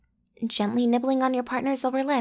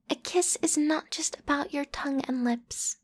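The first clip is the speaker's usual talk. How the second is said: whispered rule; 5 dB quieter than usual. Acted.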